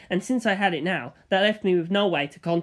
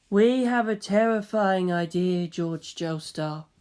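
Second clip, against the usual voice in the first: grim announcement; slower than usual. Acted. Funny warning George of a terrifying idea, slow and grim. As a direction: lean in and deliver the dread slowly.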